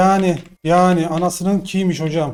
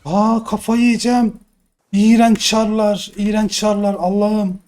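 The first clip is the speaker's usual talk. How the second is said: exasperated groan; 5 semitones higher, 4 dB louder, slower than usual. Real, not acted. Streamer losing it at game.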